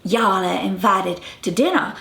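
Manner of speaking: non-rhotic Southern accent addressing two people; Southern accent demo; Southern y'all demo. Shown as a demonstration. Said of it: "Now, I can say".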